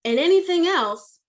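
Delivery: high, emphatic start that settles down; firm manager, lightly acted; authoritative lecture. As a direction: drive the final point home as the boss. Boss ends his lecture.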